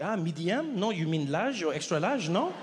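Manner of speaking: fast, loud French shop clerk; French salesman roasting me; French accent. Retold or imitated. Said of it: "He's like".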